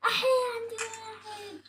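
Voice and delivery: slow, crying-out alarm; startled shout. Real, not acted. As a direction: yelp at the sudden enemy. Enemy spotted mid-fight. (صرخة مفاجأة)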